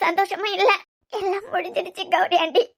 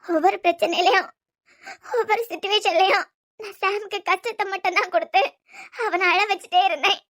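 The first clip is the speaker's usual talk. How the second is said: tearful sobbing; 2 semitones higher, 6 dB quieter than usual. Acted.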